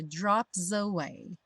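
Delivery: "drops away" joined, S sliding into "away"; words linked. Shown as a demonstration. Teacher showing the song's metre, "drops away" linked. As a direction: run "drops away" together as one word. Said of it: "o drops junta com away".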